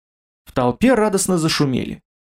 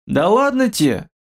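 modest; 6 semitones higher than usual. A narrator's reading. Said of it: "ответил мрак скромно".

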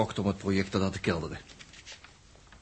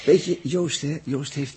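hoger en luider ingezet, nadrukkelijk; 7 semitones higher, 7 dB louder, slower than usual. Acted. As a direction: roep het eruit om aandacht te trekken. Jaap verheft zijn stem over Joost. (Jaap zegt luid en nadrukkelijk tegen Els)

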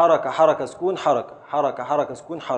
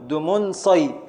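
slow scansion; much slower than usual. Shown as a demonstration. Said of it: "ابدأ في التقطيع".

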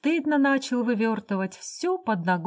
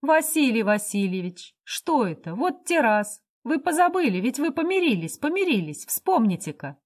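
coaxing laugh; 4 semitones higher than usual. Acted. Laughing woman soothes a drunk.

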